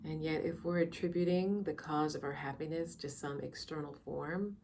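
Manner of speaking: soft, unhurried meditation guide with long pauses; calm, measured meditation voice; guided meditation. Real, not acted. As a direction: ease listeners into quiet reflection, leaving space between phrases.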